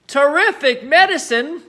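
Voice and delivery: grandma's delighted cry; excited cry. Acted. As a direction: crow about it greedily. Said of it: "she cried".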